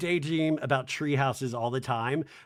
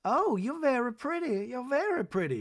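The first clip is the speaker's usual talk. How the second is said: put-on old lady voice; 8 semitones higher than usual. Imitating elderly Reba.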